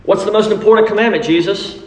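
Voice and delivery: eager questioner. Acted. Scribe asking Jesus.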